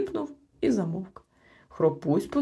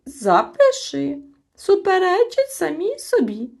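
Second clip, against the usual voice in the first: much higher, louder, slow triumphant shout; 12 semitones higher, 8 dB louder than usual. A narrator's reading. Chmykh shouts for the record, triumphant. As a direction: catch them out loudly. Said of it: "крикнув Чмих".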